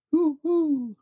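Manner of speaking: very high hoo hoo; high owl hoot. Acted. Dad reading to a child, high owl hoot. Sound list.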